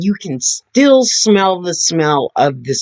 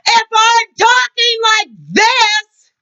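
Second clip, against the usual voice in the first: far higher, slow, almost sung; very raised, sing-song voice; 3 dB louder, slower than usual. Shown as a demonstration. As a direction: stretch it out like calling across a field, half singing.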